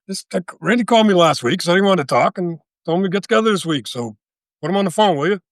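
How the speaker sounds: impatient. Retold or imitated. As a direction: insist on being put through. Retelling a tense phone call.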